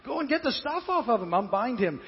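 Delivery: Jesus urging the crowd, loud and pressing; urgent command. Acted. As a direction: tell them to hurry and help. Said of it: "Jesus says".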